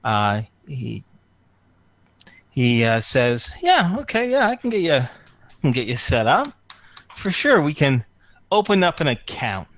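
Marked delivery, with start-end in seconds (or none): 3.6-9.7 high, breezy, upbeat reassurance; eager broker voice. Acted. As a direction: sell it like a dealer closing a deal. Broker agrees to open account.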